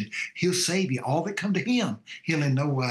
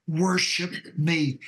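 slow, drawn-out, slightly raised command; devil's command again; 3 semitones higher, much slower than usual. Retold or imitated. Preacher repeating the devil's command to the audience, slow. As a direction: stretch it out as the tempter. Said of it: "That's what the devil told him".

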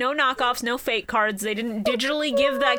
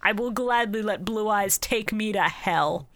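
solemn dramatic; slower than usual. Retold or imitated. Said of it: "And Kaiba going".

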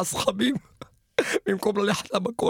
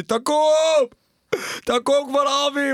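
father yelling; 4 semitones higher, slower than usual. Retold or imitated. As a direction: roar at the son to get up now. Father waking lazy son.

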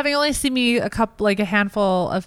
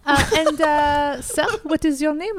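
put-on French accent. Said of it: "This is a good accent".

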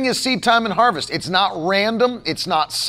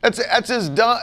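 normal talking voice

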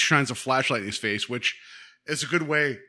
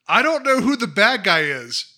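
put-on higher, louder little-kid voice; confused child; 7 semitones higher, 6 dB louder than usual. Confused kid in a grown body admits it, higher childlike voice. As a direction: play it as a bewildered small boy. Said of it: "my favorite line of the episode is".

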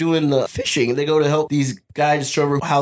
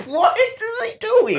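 much higher and slow, stretched disbelief; baffled disbelief; much slower than usual. Retold or imitated. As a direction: drag it out, utterly baffled. Viewer's baffled reaction.

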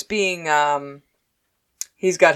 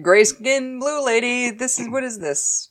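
baffled Earth people; 7 semitones higher, slower than usual. Retold or imitated. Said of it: "They're like".

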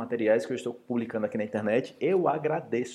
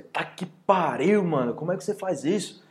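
annoyed outburst; 6 semitones higher than usual. Acted. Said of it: "alguém faz alguma coisa que você não gosta".

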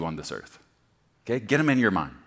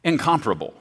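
loud, high, emphatic no no no; God insisting; 6 semitones higher, 7 dB louder than usual. Acted. Preacher voicing God correcting the congregation, loud and emphatic. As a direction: drive it home, slowing on the last line. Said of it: "And God says".

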